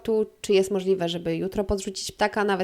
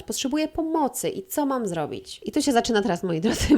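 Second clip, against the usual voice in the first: usual speaking voice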